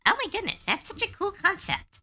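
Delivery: high mock-thrilled gushing; gushing excitement. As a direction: gush over the idea. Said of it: "it was like".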